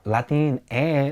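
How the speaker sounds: put-on "Latin E" said as la-TEEN-eh; "Latin E" as one word ending in "eh"; pronunciation with E. Shown as a demonstration. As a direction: say "Latin E" with a Spanish "eh" at the end. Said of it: "using an E".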